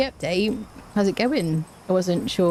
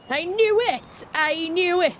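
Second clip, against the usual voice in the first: I knew it; 10 semitones higher, slower than usual. Real, not acted. Teasing that she switched accent.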